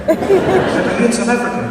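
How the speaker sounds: high, laughing question. Retold or imitated. Son laughing as he retells mom's guess. Laughing while voicing mom.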